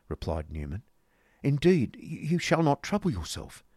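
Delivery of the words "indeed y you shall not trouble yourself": high-voiced, protesting lady; fussy polite refusal, acted; Missus Nickleby. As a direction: insist politely in a higher voice. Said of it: "said Missus Nickleby".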